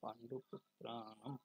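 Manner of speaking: পাণ্ডুপুত্রাণাম drawn out with a long ā; measured teaching take of পাণ্ডুপুত্রাণাম, vowels lengthened; Sanskrit pronunciation. Shown as a demonstration. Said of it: "সংস্কৃত উচ্চারণটা কি হবে". (পাণ্ডুপুত্রাণাম টেনে সংস্কৃত উচ্চারণে)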